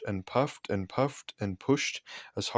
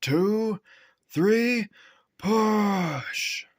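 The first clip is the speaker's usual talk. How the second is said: rising higher with each count, loud; 11 semitones higher, 3 dB louder, much slower than usual. A narrator's reading. Fat controller calling the count to push Henry, rising loud. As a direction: call the count like a foreman. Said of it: "The fat controller said".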